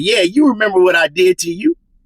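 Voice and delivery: put-on laughing, mocking tone. Retelling what Jermell Charlo said while laughing at him: mock laughing taunt as Jermell Charlo. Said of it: "Laughing at him like".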